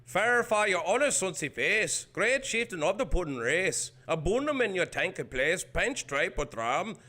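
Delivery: hammed-up Scottish recital; Scottish accent. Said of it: "Here we go, Scottish".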